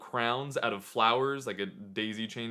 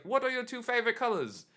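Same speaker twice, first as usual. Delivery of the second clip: sweet maiden voice; 12 semitones higher than usual. Retold or imitated. Flower ladies ask sweetly.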